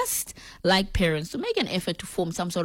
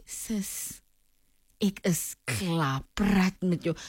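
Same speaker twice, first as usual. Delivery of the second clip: fed-up sister; 5 dB quieter, much slower than usual. Retold or imitated. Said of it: "she'd be like".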